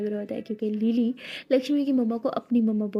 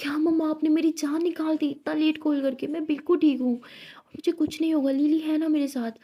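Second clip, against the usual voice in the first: agitated; 5 semitones higher, 4 dB louder than usual. Acted. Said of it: "Lakshmi बोलती है".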